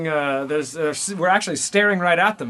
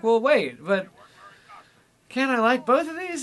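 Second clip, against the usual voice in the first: put-on whiny teen self voice; 8 semitones higher than usual. Acting out his teen self's question.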